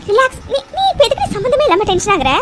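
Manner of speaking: calm yourself down while still rattled; agitated self-reassurance. Acted. Talking herself out of tension. (பதற்றத்தோடு தன்னை அமைதிப்படுத்தும் குரல்)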